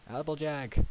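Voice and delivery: shouted. Acted. Twilight runs up behind Applejack, shouting. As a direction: call out to catch her attention. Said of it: "Twilight shouted".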